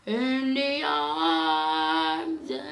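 slow, low, rough sick voice. Real, not acted. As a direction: drag it out in a hoarse sick voice. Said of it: "oh my God, I sound so terrible".

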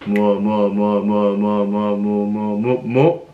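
뭐 repeated rapidly over and over; fast repetition. Shown as a demonstration. Teacher showing how 뭐 blurs into slang, rapid repeats. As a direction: rattle off 뭐 quickly until it blurs. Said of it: "if you say it fast enough over and over".

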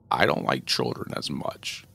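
very slow, low raspy voiceless demon; menacing demon. Acted. Shadow demon telling the mother why he came, slow menacing rasp. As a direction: draw each word out like a shadow.

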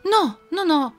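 wife explaining. Acted. Wife correcting the husband about the goat. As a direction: set him straight firmly.

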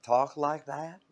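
lightly imitated Southern drawl; Southern accent. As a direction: stretch it out like a Southerner. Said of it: "fell in love with the Southern accent".

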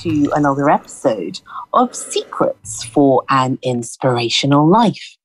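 measured presenter's welcome with deliberate pauses; podcast introduction. Real, not acted. Host welcoming listeners and introducing her returning guest, measured presenting. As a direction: introduce the show in unhurried, spaced phrases.

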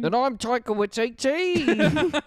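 laughing, high and slow; real laughter breaking through. Real, not acted. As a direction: crack up mid-line.

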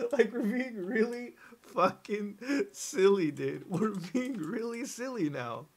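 slow, laughing, put-on silly tone; laughing mock voice. Mocking flat earthers to chat, laughing and slow. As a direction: chuckle the words out in a goofy voice.

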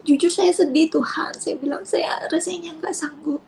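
retold prayer, sad and breathy; tearful prayer. Mother confessing to God she cannot cope, tearful. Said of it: "Saya menangis".

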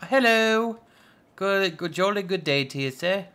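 mock posh hello; jolly posh greeting. Greeting a game character in a mock posh voice.

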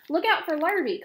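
high, loud, urgent warning; excited cows shouting; warning call. A narrator's reading. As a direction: call out the danger across the yard. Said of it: "called the cows".

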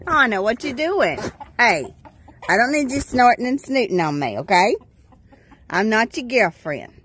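loud scolding at a pushy goat; loud scold of a goat nuzzling her clean pants. Real, not acted. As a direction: tell the goat off firmly.

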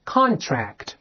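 "contract" with a front n closing "con"; front nasal pronunciation. Shown as a demonstration. Teacher has students repeat the word, "contract" with front nasal n. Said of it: "把舌面贴住这个上颚".

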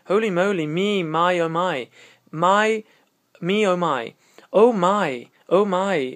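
sing-song amazed exclamation; surprised. Shown as a demonstration. Teacher acting out the lyric's surprised man for students, delighted surprise. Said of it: "espressione di sorpresa".

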